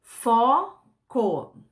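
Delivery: foco split into fo and co; syllable by syllable. Shown as a demonstration. Teacher separates foco's syllables for the class. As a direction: break foco into two syllables. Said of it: "eu vou separar a sílaba".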